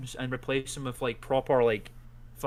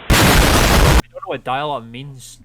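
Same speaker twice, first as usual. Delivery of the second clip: put-on clueless kid voice; 12 dB louder, slower than usual. Voicing a clueless young viewer.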